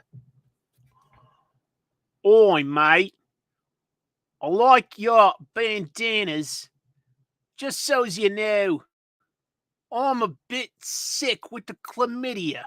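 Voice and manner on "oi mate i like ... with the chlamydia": high, slow mock Australian accent. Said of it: "I don't know how to do a".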